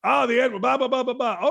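mock the coach's outrage, rattling off the blahs. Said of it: "Robert Jones went crazy".

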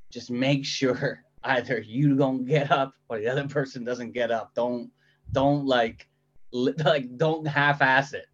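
put-on mom's strong Filipino accent, lightly done; a hint of a Filipino mom. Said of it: "in her strong Filipino accent".

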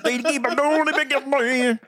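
put-on singer's accent. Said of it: "in a singer's accent".

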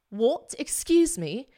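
high, indignant imitation of the lady; affronted challenge. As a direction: turn on someone with offended disbelief. Retold lady turning round, affronted.

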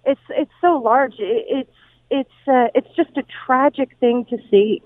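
halting restarts on short words; real stuttering. Real, not acted. Reporter describing devastation to the radio host, stuttering. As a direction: falter and repeat, lost for words. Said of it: "I'm stuttering because".

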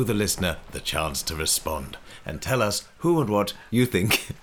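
lightly sweet storybook host voice; gentle kindly welcome to the listener. Pretend. Host greeting listeners in a mildly kindly voice. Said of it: "in that kindly voice".

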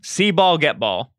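announcing the clues, high and slow; game show host. Acted. Announcing jargon terms.

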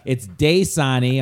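"Dasani" slowly, with DAY up front; correcting pronunciation. Retold or imitated. Ad director correcting a voice actor, slow DAY-sah-nee. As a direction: stretch the first syllable of "Dasani" to DAY. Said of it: "And the guy's like".

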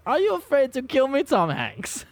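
high, loud mock-German dictator voice; hammed-up shouty German impression, dropping on the name; Hitler. Host announcing the episode title like a dictator, mock German impression. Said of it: "I have to say it like Hitler".

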